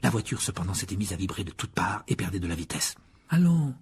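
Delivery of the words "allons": high-pitched coaxing plea; cajoling, pitched high. A narrator's reading. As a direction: sweet-talk it along, voice lifted. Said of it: "dit Ron d'un ton cajoleur".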